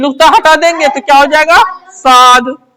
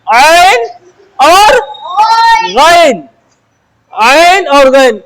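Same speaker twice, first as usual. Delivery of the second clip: slow teaching repeat; 2 semitones higher, much slower than usual. Shown as a demonstration. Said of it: "अब देखो ऐन और गैन".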